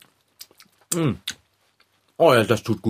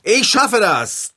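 louder, slow, determined declaration; with conviction; 5 semitones higher, 3 dB louder, much slower than usual. Shown as a demonstration. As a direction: say it like you truly believe it. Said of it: "Mit noch mehr Überzeugung".

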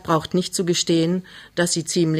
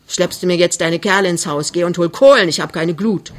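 brusque orders, louder on the command; cross scolding; 4 dB louder than usual. Acted. Mother sends her daughter for coals, cross scolding. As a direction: scold and send them off on the chore.

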